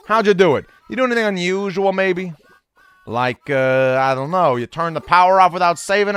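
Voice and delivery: a hammed-up New York accent for the scolding mole; a loose New York accent, Resetti scolding the player for resetting; bad New York accent. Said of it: "Rossetti's definitely got a New York accent".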